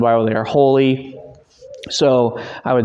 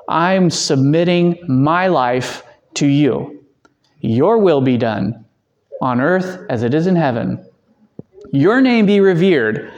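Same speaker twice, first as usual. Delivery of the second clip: slow, earnest prayer; slow sincere prayer; 2 semitones higher, slower than usual. Shown as a demonstration. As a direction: speak the prayer deliberately, word by word. Praying slowly as example.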